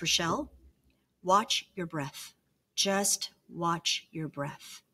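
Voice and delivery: slow, soothing, lightly voiced husband; calm reassurance. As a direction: ease her down, word by word. Husband calming her at hospital.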